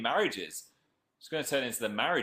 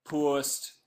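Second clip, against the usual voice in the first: "Post" said the Geordie way, like "purst"; lightly put-on Geordie vowel on "Post"; mock Geordie "Post" as he posts the tweet; Geordie accent; 4 semitones higher than usual. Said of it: "apologies for the Geordie accent".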